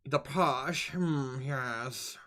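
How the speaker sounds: stuck-up rich British gent, understated; posh British accent. Shown as a demonstration. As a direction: softly try on a posh British voice. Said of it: "The stuck-up Brit-, rich British dude".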